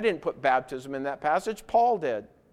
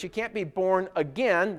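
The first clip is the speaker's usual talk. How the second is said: "again" set apart and stressed. Shown as a demonstration. Preacher explaining rebirth to listeners, stress on "again". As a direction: land firmly on "again" at the end. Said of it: "with the stress on the word again".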